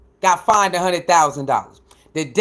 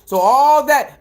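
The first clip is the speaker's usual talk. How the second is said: heated rant; 2 semitones higher than usual. Real, not acted. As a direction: tear into the hater, rising with each point.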